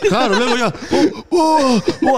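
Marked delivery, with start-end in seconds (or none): 1.3-2.2 hammed-up drunken howls; mock yelling. Friends howling through the night, mock yells.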